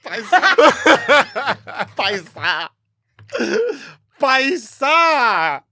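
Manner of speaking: put-on Indian-accent call, cracking up; mock Indian accent. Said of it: "when you have a bad accent".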